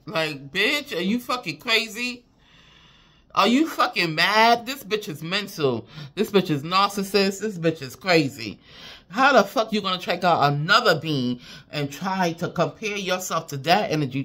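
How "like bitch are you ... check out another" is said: higher, louder disbelieving tirade; indignant rant. Real, not acted. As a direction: tear into her, outraged. Ranting at the karmic rival.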